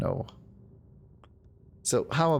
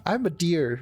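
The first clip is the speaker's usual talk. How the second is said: raised-pitch mock impersonation; Eternal; 4 semitones higher than usual. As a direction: keep up the silly high voice. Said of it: "does not sound like Eternal".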